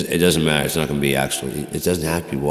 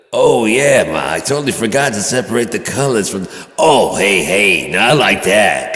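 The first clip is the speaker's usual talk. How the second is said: high and loud, hamming up the surprise; mock excited exclaim; 6 semitones higher, 8 dB louder than usual. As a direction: act the son, playfully caught out. Joking to mom about laundry.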